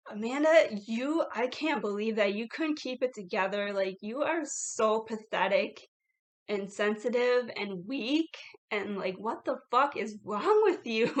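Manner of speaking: scolding herself, loud on Amanda; inner critic voice. Retold or imitated. Amanda's inner voice scolding her for crying, mock-scolding. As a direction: berate yourself like a nagging inner critic. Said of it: "the voice kicked in".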